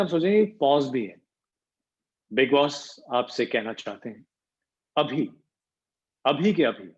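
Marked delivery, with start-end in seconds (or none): 2.3-6.9 Bigg Boss voice with pauses. Retold or imitated. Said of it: "तो वो space दिया जा रहा है".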